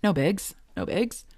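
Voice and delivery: breezy, fast no biggie talk; casual surgeon. Retold or imitated. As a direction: toss it off like nothing. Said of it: "this punk is just talking like".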